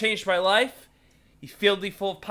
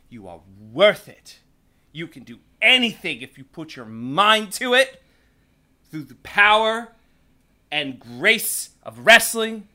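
booming pep talk, louder throughout; loud motivational speech; 6 dB louder than usual. Retold or imitated. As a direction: preach it like a motivational speaker. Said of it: "he tells them".

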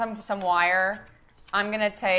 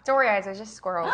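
character voice; faster than usual. Acted. In-character scene with squirrels.

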